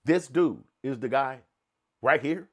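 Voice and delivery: loud, slow pointing out the guy; hammed-up accusation, slow and loud; loud slow mock identification; mock accusing. Acting out family spotting him.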